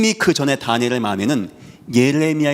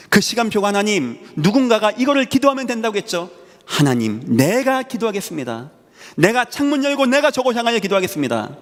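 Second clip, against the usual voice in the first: fervent prayer; 7 semitones higher than usual. Pretend. Daniel's prayer voiced by preacher.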